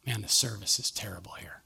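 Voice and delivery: hushed grumble under the breath; whispered complaint. Retold or imitated. Son grumbling to his dad in the car, whispered. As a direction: mutter it low so the manager won't hear.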